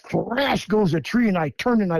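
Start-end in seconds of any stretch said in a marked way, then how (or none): 0.0-0.7 higher-pitched, drawn-out crash noise; imitated crash. Storyteller mimicking a tree crashing off to his right, imitated crash. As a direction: voice the word like a falling tree. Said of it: "I hear".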